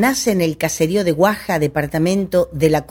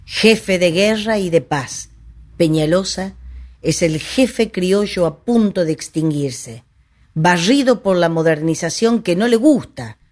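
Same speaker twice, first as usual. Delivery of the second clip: measured recital with pauses between phrases; solemn portrait recitation. Acted. Storyteller reciting the caudillo's portrait, measured declamation. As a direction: recite each trait as a separate declamatory phrase.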